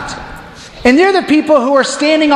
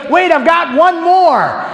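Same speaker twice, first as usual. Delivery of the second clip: showman teasing; 7 semitones higher, slower than usual. Retold or imitated. Showman teases cheering crowd.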